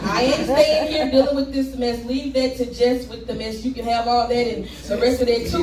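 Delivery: rhythmic poem delivery with rising punchlines; spoken word performance. Acted. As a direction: perform it like slam poetry.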